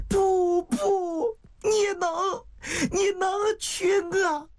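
high, tearful pleading; crying out. Acted. Woman insisting the dying man can marry her, high and crying. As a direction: sob it out in protest. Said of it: "香玉一下就哭出声来了".

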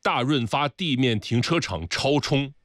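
slow, clear dictation; dictating slowly. Real, not acted. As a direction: spell it out for the note taker. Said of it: "你麻烦帮我记录一下".

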